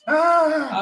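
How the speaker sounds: loud, high mock announcement with a laugh; mock pilot announcement. (anúncio de piloto fingido, alto e rindo)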